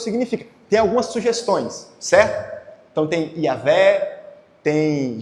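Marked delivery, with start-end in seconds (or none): 3.4-4.2 "Iavé" opening on a Y glide, drawn out; suggested pronunciation. Shown as a demonstration. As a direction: say "Iavé" slowly with an initial ee-ah. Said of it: "que pronúncia é essa".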